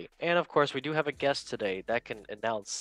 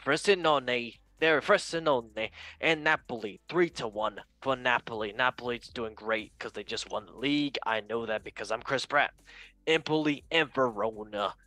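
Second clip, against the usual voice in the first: Chris Pratt voice. Retold or imitated. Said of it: "I forgot to do the Chris Pratt voice again".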